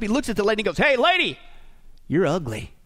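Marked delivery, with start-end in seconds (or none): 0.8-1.4 high, cheeky call from a parrot; parrot piping up. Acted. Parrot hails a lady passing the pet store, piping up. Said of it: "he pipes up". 2.1-2.7 low, deadpan put-down; parrot's insult. Acted. Parrot insults the passing lady, low deadpan. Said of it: "the parrot, though, he pipes up".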